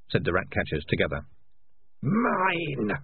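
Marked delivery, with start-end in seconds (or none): 2.0-2.9 drawn-out, high eerie voice; voice in the head. A narrator's reading. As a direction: let the one word stretch out high, like an inner voice intruding. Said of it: "said a voice in Morris's head".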